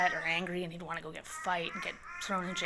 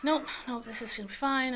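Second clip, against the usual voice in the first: high, loud insistence; retold forced optimism; mock self-reassurance; 7 semitones higher, 6 dB louder than usual. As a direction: insist on it, pitched up over the worry. Talking herself out of her panic.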